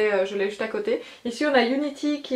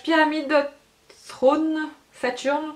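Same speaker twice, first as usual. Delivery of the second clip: shade names in rough French-accented English; bad English accent; 5 semitones higher, slower than usual. Real, not acted. Vlogger announcing shades to viewers, bad English accent. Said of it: "excusez mon accent anglais".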